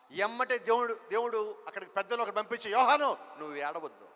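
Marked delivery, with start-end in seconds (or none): 2.7-4.1 low, gentle voice of the elder; an elder telling John not to cry, low and gentle; elder comforting John. Acted. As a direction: soothe him, lower and gentler.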